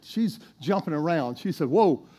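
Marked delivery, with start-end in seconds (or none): 1.7-2.1 a burst of louder glee, mildly played; lightly acted joy at good news; excited Naomi. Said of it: "Now she's excited".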